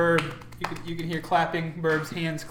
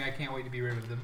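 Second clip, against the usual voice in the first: low, soft grumble; under his breath; 5 semitones lower, 8 dB quieter, faster than usual. Acted. Game master repeating what players overhear, low mutter. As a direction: keep it down, as if to yourself. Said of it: "hear him under his breath saying".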